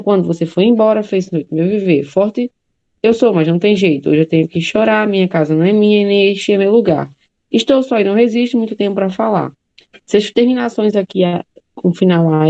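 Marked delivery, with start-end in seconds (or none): 0.0-9.5 reads the verses through in a lightly rhythmic recital; poem recitation. Acted. Teacher reading the full poem to a student, lightly rhythmic. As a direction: recite the poem in one flowing pass.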